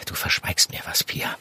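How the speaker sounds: low, soft accusation, almost breathed; hushed accusation. Acted. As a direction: press her quietly, unvoiced. Leiser Vorwurf im Verhör. (leiser, fast geflüsterter Vorwurf)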